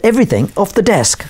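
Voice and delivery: high-pitched imitation of indignant disbelief; incredulous echo. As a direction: mimic someone taken aback by the request. Retelling Thatcher's astonished reply.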